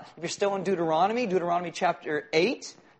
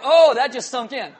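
laughing; 6 semitones higher, 11 dB louder than usual. Real, not acted. Punchline of cookie story.

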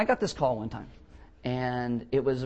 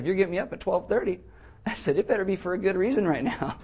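higher, mildly testy retort; irritated; 5 semitones higher than usual. Retold or imitated. Pastor retelling his reply to a late-night caller, irritated. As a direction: retell it with a touch of annoyance. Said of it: "I'm all irritated".

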